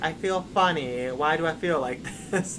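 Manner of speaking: lightly voiced puzzled child; a small kid not yet knowing pain; bewildered little boy. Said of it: "he's like".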